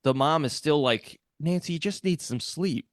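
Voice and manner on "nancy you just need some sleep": dismissive mom. Retold or imitated.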